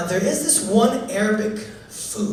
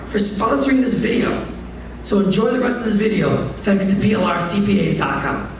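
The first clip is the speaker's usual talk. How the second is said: ad read. Acted. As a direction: read it like a radio ad. Sponsor ad read.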